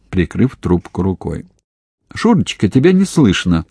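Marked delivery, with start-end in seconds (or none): 2.1-3.6 high, ringing mother calling. A narrator's reading. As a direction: call him out brightly down the line. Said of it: "звенел голос Софьи Марковны". (звонкий голос матери в трубку)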